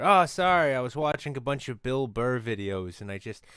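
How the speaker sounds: put-on loud Bill Burr style Boston accent; brash New England rant voice; old new england accent. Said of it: "why do you sound like a New Englander".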